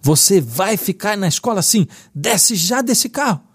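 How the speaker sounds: a dad mustering a firmness he doesn't feel; a hint of a strict father ordering his son out of the car; stern father order. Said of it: "Tirei forças da onde não tinha e disse".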